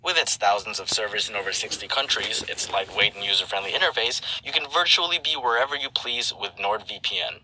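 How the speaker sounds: smooth sponsor read voice; reading a NordVPN ad to viewers. Acted. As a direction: sell it like a radio spot.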